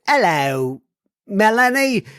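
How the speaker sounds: put-on a fleeting, half-hearted stab at an Irish accent; quick Irish accent. Host tries greeting the Irish-descended listener, with a weak Irish accent. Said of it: "I tried to go into an, an Irish accent very quickly".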